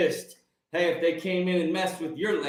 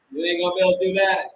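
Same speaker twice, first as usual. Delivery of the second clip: louder, fast warning; louder, fast warning to bullies; louder and faster; 5 dB louder, much faster than usual. Shown as a demonstration. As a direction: fire it off quickly and louder. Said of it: "repeated line, punched".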